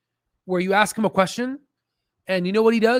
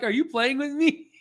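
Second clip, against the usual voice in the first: higher, slow, lightly voiced puzzled dog; dog's voice; 6 semitones higher than usual. Owner voicing his puzzled dog, light higher voice. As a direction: speak as the confused dog. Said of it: "my dog is like".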